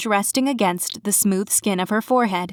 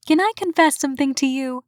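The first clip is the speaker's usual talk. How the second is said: put-on confiding young woman; 6 semitones higher than usual. A narrator's reading. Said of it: "her voice lowered".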